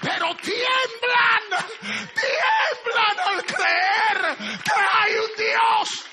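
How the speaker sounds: loud, high, drawn-out preaching cry; preaching at full force. Acted. Preacher crying out that even demons tremble. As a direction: cry it out, slowly, building.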